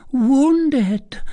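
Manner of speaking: alarmed. A narrator's reading. Cousin learning he was wounded, crying out in alarm.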